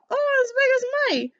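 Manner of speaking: put-on high call in a street-boy accent; boy's accent. The boy hollering back up to Scrooge. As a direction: shout back like a young lad. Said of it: "doing an accent for him".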